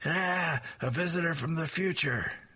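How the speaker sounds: high-pitched shocked scream.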